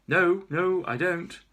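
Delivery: loud, high alarmed refusal. Acted. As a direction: refuse in a panic.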